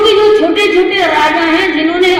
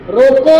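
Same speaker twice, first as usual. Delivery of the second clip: रोको alone, then a comma pause; pause after रोको; 2 semitones lower than usual. Shown as a demonstration. Teacher showing the comma's first place, रोको cut off by a pause. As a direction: stop right after रोको, holding back मत. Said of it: "यहां कोमा लगाया".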